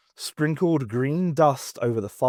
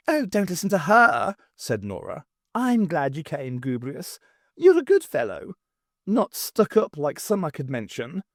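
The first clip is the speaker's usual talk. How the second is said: high, friendly cook voice; 3 semitones higher than usual. Acted. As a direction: reassure him, a bit catty. Nora comforting Gubrius.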